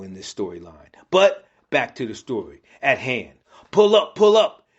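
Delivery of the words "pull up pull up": high, loud urgent yell; panicked soldier's yell. A narrator's reading. Soldier about to be swallowed by Hulk, yelling urgently. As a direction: call out in alarm. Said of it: "yells a soldier".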